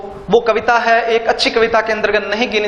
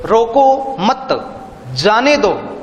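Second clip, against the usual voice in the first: slow "रोको मत", halt, then move on to "जाने दो"; pause, then continue; much slower than usual. Shown as a demonstration. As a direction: break clearly after मत before carrying on with "जाने दो". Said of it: "यहां से जब रुक के यति का प्रयोग करके".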